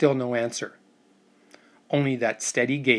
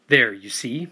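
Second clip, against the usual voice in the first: lightly mocking, a touch louder; 4 dB louder than usual. Uncle mocks nephew before the first mate, lightly mocking. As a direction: tease him with the point proven. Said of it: "my uncle said mockingly".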